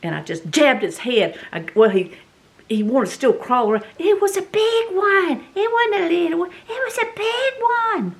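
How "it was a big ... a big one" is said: emphatic. Retold or imitated. Telling listeners the snake's size, emphatic. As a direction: stress how big it was.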